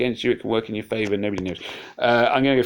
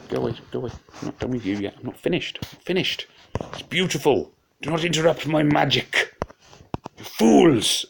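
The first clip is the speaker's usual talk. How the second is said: higher, theatrical wizard interrupted mid-spell; hammed-up dramatic; 6 semitones higher than usual. Player mock-scolding attackers for interrupting his magic, hammed-up dramatic. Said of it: "I'm getting all dramatic".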